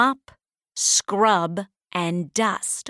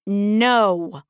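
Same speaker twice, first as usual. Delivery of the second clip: a short, louder no, barked out; sisters' sharp no; 4 dB louder than usual. Acted. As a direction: sisters refuse Cindy, snapping no. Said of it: "cried her sisters".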